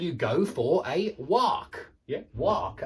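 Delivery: American "walk" with an open ah; slow American-style "walk"; American pronunciation. Shown as a demonstration. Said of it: "like in British English".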